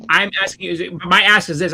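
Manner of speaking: heated but controlled comeback; retold angry retort. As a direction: push back with irritated emphasis. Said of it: "I said it just like that 'cause I was angry".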